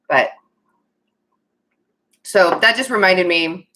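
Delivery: usual speaking voice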